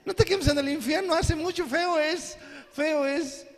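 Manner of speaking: hammed-up simple-minded pitch about hell; a lightly mocking naive believer; childish preaching. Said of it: "qué cree que le dice la gente".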